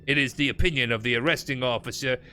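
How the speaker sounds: put-on gruff old-time army report reading; 1940s gruff voice. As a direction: read it like a gruff 1940s officer. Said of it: "my nineteen forties gruff voice".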